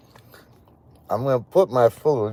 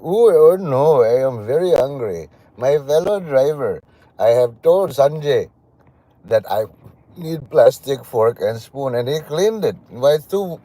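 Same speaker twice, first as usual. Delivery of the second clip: mock Indian taxi driver; 2 semitones higher, 3 dB louder than usual. Driver complaining to fellow driver about Sanjay, mock Indian accent. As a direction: grumble about the cleaned fork in a hammed-up Indian accent. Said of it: "And then you just like".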